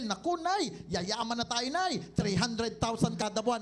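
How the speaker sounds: acting out a giddy newcomer, pitch leaping on "Nay"; giddy excitement. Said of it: "gigil na gigil". (gigil na gigil na pagbabalita kay Nanay)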